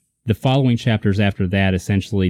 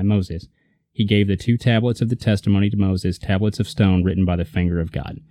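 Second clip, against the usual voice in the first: scripture reading. Acted. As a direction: read the verse out deliberately. Reads scripture aloud.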